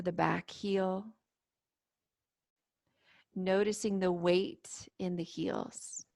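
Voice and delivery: calm, unhurried meditation guide with long pauses; guided meditation. Real, not acted. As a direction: gently lead them into stillness and breath. Leads guided standing meditation.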